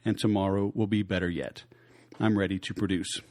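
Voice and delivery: steady, earnest recital of a creed; manifesto read. Acted. Host reciting his sales manifesto, earnest and steady. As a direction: read it like a personal pledge.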